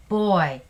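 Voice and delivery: put-on loud, emphatic "Boy"; emotional exclamation. Shown as a demonstration. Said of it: "the word that shows emotion".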